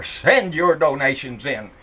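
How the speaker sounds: slow, hammed-up preacher pitch; mock televangelist. Mocking Pat Robertson's donation appeal, slow hammed-up preacher. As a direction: drawl it out like a TV evangelist begging for cash. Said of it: "I can hear it now".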